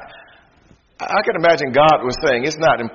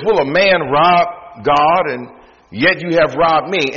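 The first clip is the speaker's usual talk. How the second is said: slow accusation; 3 semitones higher, 4 dB louder, slower than usual. Acted. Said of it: "God says".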